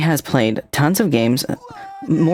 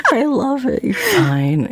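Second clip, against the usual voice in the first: flustered squeal; 12 semitones higher, slower than usual. Real, not acted. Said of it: "flustered by love you".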